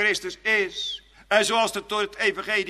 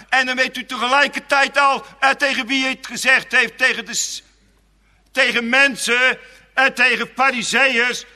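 fiery preaching; 3 semitones higher, 7 dB louder than usual. Acted. Preaching at full force.

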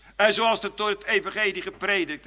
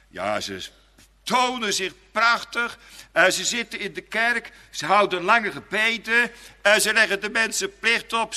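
ordinary talk, nothing marked

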